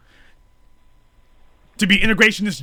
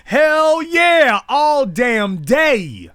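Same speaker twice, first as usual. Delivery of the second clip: triumphant shout; 6 semitones higher, much slower than usual. Real, not acted. Answering his own question about black empowerment, exultant shout. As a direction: crow it out in triumph.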